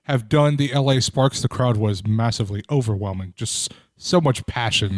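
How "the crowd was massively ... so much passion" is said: dry, low-key sarcastic praise; deadpan sarcasm. Real, not acted. Podcast guest mocking a thin Sparks crowd, sarcastic. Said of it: "by that I'm being very sarcastic".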